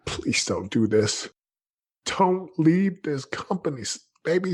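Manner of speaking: imitated tearful plea. Wife begging husband not to leave his job, imitated tearful pleading. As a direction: act out a crying wife's drawn-out, high plea. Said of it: "she started to cry".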